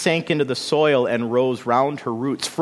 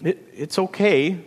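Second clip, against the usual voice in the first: hesitant, raised-pitch reassurance; comforting; 7 semitones higher than usual. A narrator's reading. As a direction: try gently to console, stumbling at the start. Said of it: "yearning to comfort her sister".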